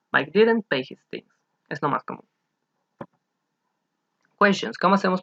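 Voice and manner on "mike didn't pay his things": slow model sentence. Shown as a demonstration. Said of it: "Mike did not o Mike didn't".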